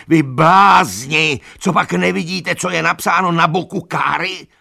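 desperate angry outcry; furious shout. A narrator's reading. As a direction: rage at their blindness. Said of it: "křičel Benjamin".

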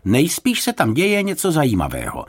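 high, lively encouragement; encouraging. A narrator's reading. Lifeguard cheering up the searchers, encouraging. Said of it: "pokusil se je povzbudit záchranář".

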